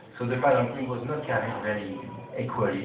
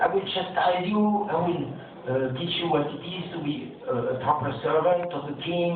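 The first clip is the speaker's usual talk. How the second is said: a retold king snapping at his lazy servant; angry king; 6 semitones higher than usual. King scolding his palanquin carrier, raised angry voice. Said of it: "angry and speaking bad".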